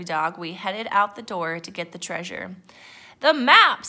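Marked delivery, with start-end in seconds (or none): 3.2-3.9 high, loud pirate demand; pirate captain. A narrator's reading. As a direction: call for it urgently as captain. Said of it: "said Braidbeard".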